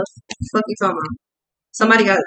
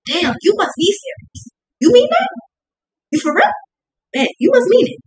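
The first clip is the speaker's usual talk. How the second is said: hammed-up wounded surprise; mock shock; 11 semitones higher than usual. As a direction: squeak it like you can't believe it.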